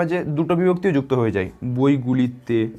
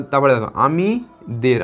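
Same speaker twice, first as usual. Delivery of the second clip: slow, deliberate আমিদের as the wrong form; slower than usual. Shown as a demonstration. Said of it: "আমরা কি আমিদের বলি". (ধীরে ভুল রূপ আমিদের)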